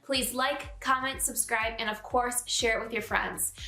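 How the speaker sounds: bright, upbeat sign-off over music; outro promo read. Acted. Host asking viewers to like and subscribe, upbeat promo read. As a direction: wrap up the show and pitch the channel.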